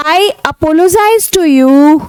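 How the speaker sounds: lightly voiced slow apology; a hint of a cartoon boy saying sorry; Shinchan apologizing. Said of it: "वो कह रहा है".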